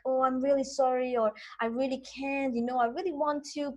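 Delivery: mildly pained, pleading apology; guilty sorry. Shown as a demonstration. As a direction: sound a bit sorry you can't help. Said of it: "are you feeling sad that you can't help".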